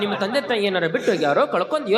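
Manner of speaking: gentle concern. Acted. Devotees comfort a crying boy.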